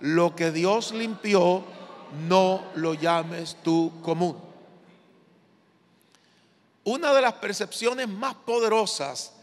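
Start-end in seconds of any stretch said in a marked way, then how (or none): 0.0-4.5 slow, emphatic lead for the congregation; out loud for repeating. Shown as a demonstration. Preacher has the congregation repeat the verse, out loud. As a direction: say it out loud, word by word. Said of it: "Diga conmigo en voz alta".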